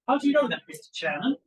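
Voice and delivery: loud, high challenge on the opening; aggressive question. Acted. Witness challenging the committee chairman, aggressive. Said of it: "Miss Ehrlichman asked aggressively".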